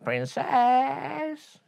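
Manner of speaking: high, creaky calling frog; creaky frog calling after her. Acted. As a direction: call out in a creaky croak. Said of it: "in his creaky voice".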